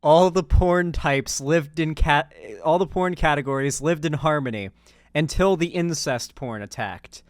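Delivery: lightly hammed-up legend narrator; mock epic intro narration. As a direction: narrate a parody prologue with emphatic key words. Parody of Avatar series intro.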